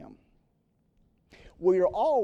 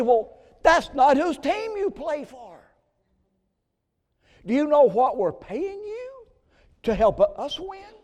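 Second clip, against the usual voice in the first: slow, loud, high-pitched scolding; a boss shouting at his own man; indignant owner; 10 semitones higher, 10 dB louder than usual. Acted. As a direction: dress down the player who threw the game. Voicing an indignant team owner.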